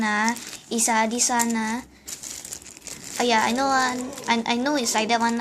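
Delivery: put-on lightly Singlish accent; easy Singlish accent, casual chat. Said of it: "the speak Singlish person, Singaporean language".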